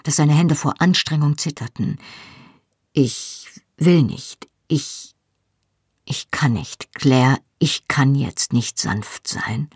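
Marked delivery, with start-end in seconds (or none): 2.9-9.7 slow, halting words forced out under strain. A narrator's reading. Husband to wife, struggling for control, strained and halting. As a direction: fight to get each word out, half whispered at the end. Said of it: "Er sprach mühsam".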